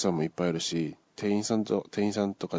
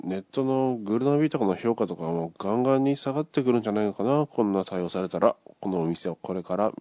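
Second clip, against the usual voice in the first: 店中に聞こえるよう声を張り上げ、最後は高く強く; 周りの客に聞かせるつもりでゆっくり大声の嫌味; loud complaint; 3 semitones higher, 4 dB louder than usual. Retold or imitated. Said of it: "大きな声で叫んで". (店員を待つ客が店内に向けて大声で嫌味を叫ぶ)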